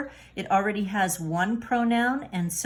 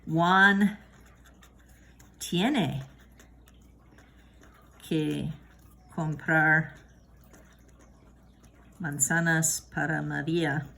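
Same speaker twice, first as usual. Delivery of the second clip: slow, spaced-out example sentence; slow model sentence; slower than usual. Shown as a demonstration. Teacher reading an example slowly for learners. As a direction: read Juan tiene que comprar manzanas para María slowly with pauses. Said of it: "Let's try that".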